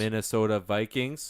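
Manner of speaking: to someone hard of hearing. Real, not acted. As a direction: spell it out slowly. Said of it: "Can you speak up, please?".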